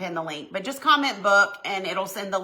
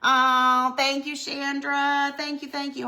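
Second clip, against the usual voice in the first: overcome with emotion; 6 semitones higher than usual. Real, not acted. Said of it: "so overcome with emotions".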